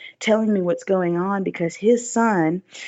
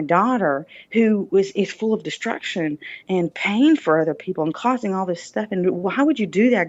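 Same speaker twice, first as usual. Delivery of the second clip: dad's anguished thoughts. Retold or imitated. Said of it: "in his mind he was thinking".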